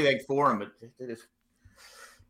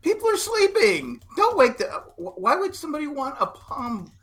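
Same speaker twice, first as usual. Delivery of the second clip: cranky dad; 9 semitones higher than usual. Acted. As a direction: scold like a cranky teenager's dad. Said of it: "that's a cranky t-, teenager's dad".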